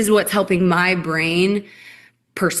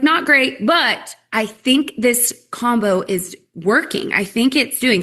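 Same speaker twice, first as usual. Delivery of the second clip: customer voice; 4 semitones higher, slower than usual. Retold or imitated. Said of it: "she was like".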